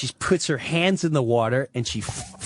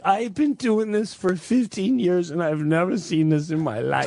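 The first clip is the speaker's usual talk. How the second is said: dramatic nurse; 3 semitones higher than usual. Retold or imitated. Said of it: "she's in full-blown drama".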